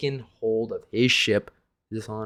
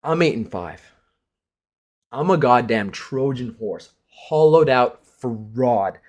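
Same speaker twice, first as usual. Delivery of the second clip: mock emotional; 4 dB louder than usual. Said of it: "I'm gonna get emotional here".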